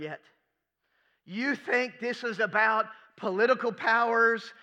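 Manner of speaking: Jesus, earnest and patient, a touch of urgency; firm teacher's insistence; voicing Jesus. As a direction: speak as Jesus correcting his friends. Preacher voicing Jesus at length.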